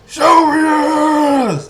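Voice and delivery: high, loud mock police yell; imitating shout. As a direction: ham up her command, shrill and slow. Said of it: "That's how".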